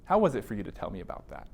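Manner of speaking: a therapist gently checking in after a heavy disclosure; gentle therapist check-in. Shown as a demonstration. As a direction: ask it gently, inviting the client to open up. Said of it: "make bids and openings to say".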